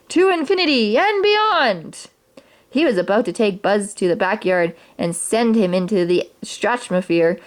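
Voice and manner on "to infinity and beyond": much higher, slow, hammed-up mock hero cry; gleeful yell. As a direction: bellow it like a mad kid launching a rocket. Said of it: "Sid yelled".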